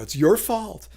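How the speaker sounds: lightly acted reproach; blaming. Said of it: "blaming the other person".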